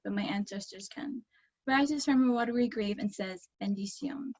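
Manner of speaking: measured, rhythmic poetry reading; poem reading. Acted. Poet reading her island poem to the audience, measured. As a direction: let each image land with a pause.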